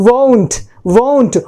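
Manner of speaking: won't with one long gliding o; model pronunciation. Shown as a demonstration. Teacher shows how won't is pronounced, modelled carefully. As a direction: say "won't" as WOHNT, vowel drawn through. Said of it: "जो pronunciation है ये देख लीजिए".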